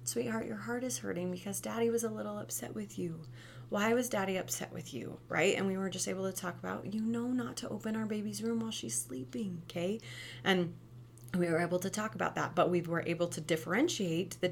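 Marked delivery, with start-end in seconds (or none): 0.0-5.2 put-on softer, breathy-whispered comfort to a child; tender whisper. Mother comforts daughter about daddy. 6.9-10.0 put-on softer, breathy-whispered comfort to a child; tender whisper. Mother gently reminds daughter.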